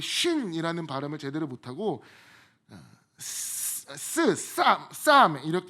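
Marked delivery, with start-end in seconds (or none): 3.2-4.9 스- hissed out, then 쌈 said with a hard ss; lisped s sound. Shown as a demonstration. Preacher demonstrating a mispronunciation to the congregation, slow drawn-out s. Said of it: "이렇게 발음을 했다고 합니다". 4.9-5.4 쌈 said louder, with a tense doubled ss; mispronounced 쌈. Shown as a demonstration. Preacher showing how the tribe said the word, loud 쌈. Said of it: "이렇게 발음을 했다고 합니다".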